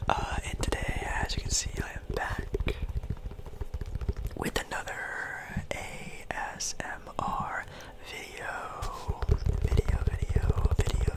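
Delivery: close, breathy ASMR whisper. Real, not acted. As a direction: whisper it gently into the mic.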